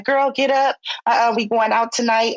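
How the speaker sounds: put-on high, upbeat girlfriend hyping her up; pushy friend voice. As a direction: call it out like a bossy best friend. Friend calling to cheer her up.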